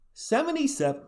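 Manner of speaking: high excited burst over a stat; hammed-up emotion at a great number; mock choked up. Hyping a player's shooting percentage, mock choked up. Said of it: "I'm getting choked up".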